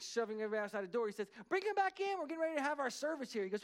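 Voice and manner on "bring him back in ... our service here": high, hurried call to the pastors; retold urgent instruction, pitched up; urgent minister. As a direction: call out the order over a panic. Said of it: "'cause they were panicking".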